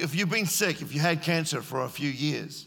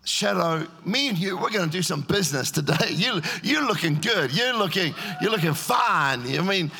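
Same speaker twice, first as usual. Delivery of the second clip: cheeky banter with his shadow; playful Peter; 3 semitones higher than usual. Retold or imitated.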